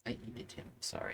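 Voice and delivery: whispered joke. Pretend. Jokey confession about dinosaur.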